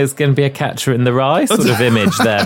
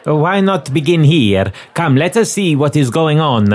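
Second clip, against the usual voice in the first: put-on young female Cockney accent, pitched up; Cockney lady; 3 semitones higher than usual. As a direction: fairground barker calling out in a Cockney accent. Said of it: "With a young female Cockney accent".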